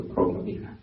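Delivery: Brahma Vihara with Brahma as 'Phrom-ma'; Thai pronunciation. Shown as a demonstration. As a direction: start Brahma on a puffed 'p', vowel 'o'. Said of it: "I think in Thai also".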